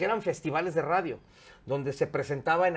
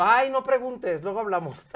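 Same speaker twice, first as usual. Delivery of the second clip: camp coy voice; 6 semitones higher, 4 dB louder than usual. Retold or imitated. La Garra camp voice reply.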